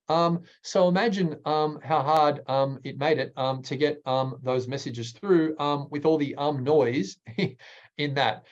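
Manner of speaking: every phrase broken by um; mock filler-word speech; filler-heavy demo. Shown as a demonstration. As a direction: stumble through with ums. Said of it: "demonstrating filler words".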